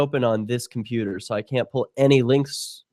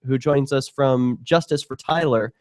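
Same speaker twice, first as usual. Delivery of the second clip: radio host announcing. Acted. Host opens show after break.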